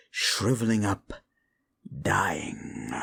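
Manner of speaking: a hushed, gloating whisper; taunting whisper of a gloating demon. Acted. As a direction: whisper the word like a cruel secret. Demon taunts the frail mortal.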